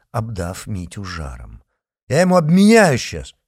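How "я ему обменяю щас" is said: loud, high threat; furious threat; threatening yell. A narrator's reading. Patriot threatening.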